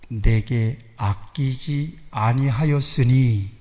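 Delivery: slow, weighty reading of God's words; slow solemn voice of God; solemn scripture reading. Acted. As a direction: lay each phrase down slowly, with long pauses. Reads God's words slowly.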